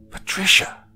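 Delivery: high, loud shocked cry; scandalised call of her name. A narrator's reading. Mother rebuking her daughter for agreeing, crying out. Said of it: "my mother cried".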